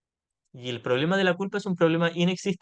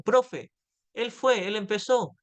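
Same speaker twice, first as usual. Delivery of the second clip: tattling schoolkid; 3 semitones higher, slower than usual. Retold or imitated. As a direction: pipe up like a child telling on a classmate. Alumno acusando al compañero ante profe. (alumno acusando a su compañero ante la profe, voz de niño más aguda)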